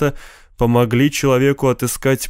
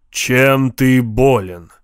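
friendly monster voice; much slower than usual. Acted. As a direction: ask slowly, like a huge spirit. Ifrit asks the old man. (медленный голос джинна)

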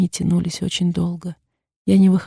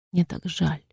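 a hoarse, much softer voice; 8 dB quieter, slower than usual. A narrator's reading. Yulia apologising to a crying Leila, hoarse and hushed. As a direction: rasp it out, barely voiced. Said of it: "хрипло сказала я".

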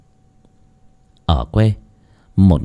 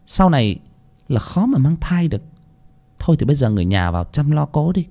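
lightly voiced grave doctor; a hint of a sighing doctor breaking bad news; 5 semitones higher than usual. Doctor telling the family the prognosis, grave and measured. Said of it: "đoạn nói".

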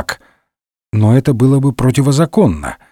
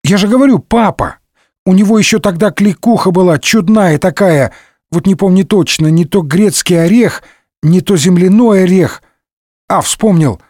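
put-on higher, quick eager boy chatter; eager youth; 6 semitones higher than usual. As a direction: rattle on like an excited lad.

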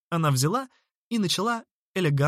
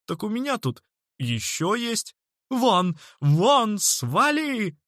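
higher, louder shouted shoo; 8 semitones higher, 3 dB louder, slower than usual. A narrator's reading. Horspot yelling at the boy to get lost. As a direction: drive the boy away loudly.

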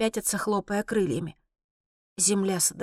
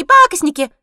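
higher, louder shrill jeer; louder squeaky cackling taunt; 10 semitones higher, 13 dB louder than usual. A narrator's reading. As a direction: jeer again even louder. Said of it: "заливается серокрылая".

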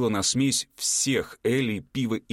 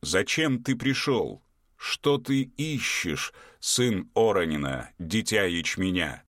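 giant's windy voice; slower than usual. Acted. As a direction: breathe it like wind through fields. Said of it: "голос его был подобен ветру".

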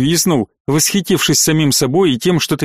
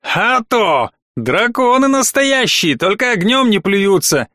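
proud; 6 semitones higher, slower than usual. A narrator's reading. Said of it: "с некоторой вроде гордостью".

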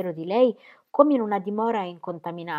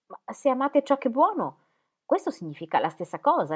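smiling; 7 semitones higher, 4 dB louder than usual. A narrator's reading. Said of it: "disse Dorotea sorridendo".

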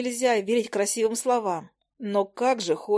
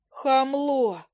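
high-pitched indignant outburst; 5 semitones higher than usual. A narrator's reading. Witch affronted by the hunter's teasing, indignant. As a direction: throw the insult out high, offended. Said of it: "возмутилась я".

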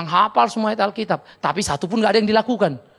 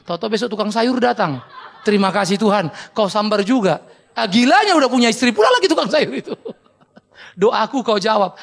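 louder, laughing through the punchline; 6 dB louder than usual. Real, not acted. Preacher telling the vegetable-seller prayer joke, loud laughter. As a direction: crack up at your own joke.

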